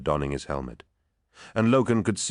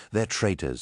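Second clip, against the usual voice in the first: "traitors" pitched up and leaned on; emphasis on last word; 4 semitones higher than usual. A narrator's reading. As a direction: put needless weight on "traitors". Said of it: "needlessly emphasizing the last word".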